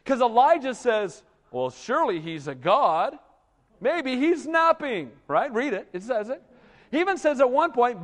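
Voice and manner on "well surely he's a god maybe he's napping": mocking trash talk. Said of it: "the first sign of trash talk ever".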